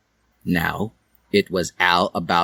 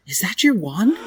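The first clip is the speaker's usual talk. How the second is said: Dally's voice; 12 semitones higher than usual. Acted. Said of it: "she asked".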